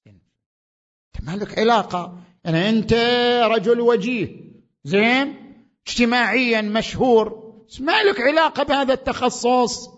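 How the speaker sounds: loud, high pulpit voice; emphatic preaching. Acted. Preacher hammers home the scholar's reply, emphatic preaching. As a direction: press the point hard on the congregation.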